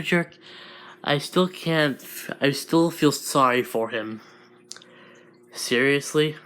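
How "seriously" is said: rising, doubting seriously; incredulous question. Acted. Deku questioning the monster, incredulous rise. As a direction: ask it in disbelief, voice lifting. Disbelieving question, then confirmation.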